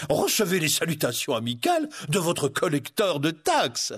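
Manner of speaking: falsely jovial sheriff; ominous good humour. Acted. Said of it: "avec une bonne humeur qui n'augurait rien de bon".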